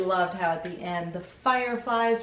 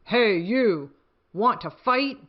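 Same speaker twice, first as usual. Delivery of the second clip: loud, bossy challenge; picking a fight with a gorilla, loud and grouchy; grouchy ladybug; 3 semitones higher, 5 dB louder than usual. Acted. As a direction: call out the bigger animal, louder. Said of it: "the grouchy ladybug said".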